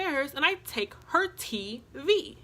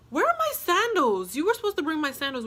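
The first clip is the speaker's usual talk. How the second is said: higher, louder mock demand; retold demand; 6 semitones higher, 4 dB louder than usual. Answering the TV question with her own, mock indignant. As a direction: hit back with a put-on indignant demand.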